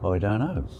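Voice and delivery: normal talking voice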